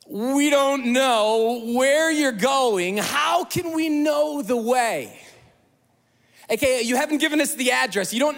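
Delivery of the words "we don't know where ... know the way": exasperated Thomas. Retold or imitated. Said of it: "look what Thomas says".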